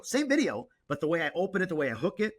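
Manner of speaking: keen and emphatic, pitch leaping up at first; real excitement. Real, not acted. Creator explaining the video hook to a peer, excited. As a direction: get carried away making the key point. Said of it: "Sorry, I get excited about it".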